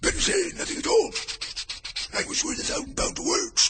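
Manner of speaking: very high, squeaky chorus voice; high-pitched passenger chanting. Acted. Passengers think in chorus, varied voices.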